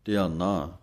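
ਧਿਆਨਾ with a long final aa; ਧਿਆਨਾ, the last naa drawn long; Gurbani pronunciation. Shown as a demonstration. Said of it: "ਨੰਨੇ ਕੰਨਾ ਬੋਲਣਾ ਹੈ".

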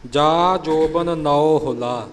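ਹੁਲਾ said soft and light, no doubled l; teacher's model line with a gentle ਹੁਲਾ. Shown as a demonstration. Teacher models ਹੁਲਾ for the sangat, light and unstressed. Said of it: "ਹੁਲਾ ਪੋਲਾ ਬੋਲਣਾ ਹੈ".

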